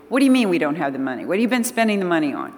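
fast, indignant comeback; quick mock-affronted retort; indignant husband. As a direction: rattle it off like an offended husband.

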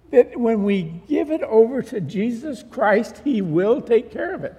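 emphatic preaching. Real, not acted. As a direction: drive the lesson home to the congregation. Preaches the lesson.

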